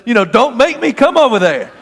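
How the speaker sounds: mock threat, half-joking bluster; Fred Sanford. Preacher imitating his own threat to the taxi driver, hammed-up bluster. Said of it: "I'm doing my Fred Sanford".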